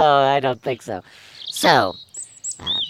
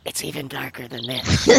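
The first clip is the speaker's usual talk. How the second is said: spooky quiet voice; 9 dB quieter than usual. Acted. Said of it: "a voice saying".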